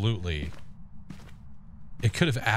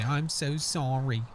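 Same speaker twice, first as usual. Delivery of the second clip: ghost voice; 6 semitones higher, slower than usual. Pretend. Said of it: "Wanna hear the ghost say".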